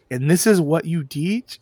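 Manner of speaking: slow, disbelieving question, rising; incredulous Ramsay. Retold or imitated. Ramsay mocking a cooking teacher, slow and incredulous. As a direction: sneer at the teacher's food. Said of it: "he's like".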